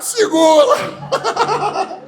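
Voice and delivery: a laughing, alarmed shout across the bank. Retold or imitated. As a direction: call out to grab her before she falls. Chaos as she spins around.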